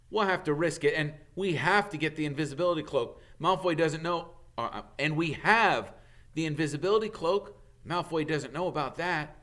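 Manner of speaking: put-on brisk boyish voice; Harry, urgent.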